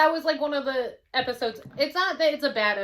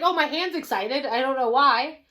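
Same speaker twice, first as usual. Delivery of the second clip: the Doctor quoted; 2 semitones higher, 5 dB louder than usual. Retold or imitated. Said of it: "'cause he's like".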